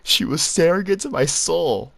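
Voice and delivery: high, loud mock girly quote; hammed-up imitation of the girl's words; mock quote of Lily. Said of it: "and I quote".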